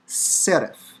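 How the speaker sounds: SERAPH ending in a clear f; long s, tapped r, falling end; Hebrew pronunciation demo. Shown as a demonstration. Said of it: "so it's spirantized".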